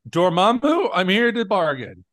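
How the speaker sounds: lightly hammed Doctor Strange; mock repeated take. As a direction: act out one take of many. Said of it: "Thirty times".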